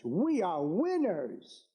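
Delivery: we are winners, drawn out slowly; slow it right down and land each word; slow emphatic repeat. Real, not acted. Rally speech, repeated slogan.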